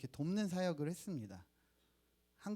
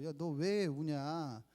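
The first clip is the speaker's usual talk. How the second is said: startled. Retold or imitated. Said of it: "깜짝 놀라서".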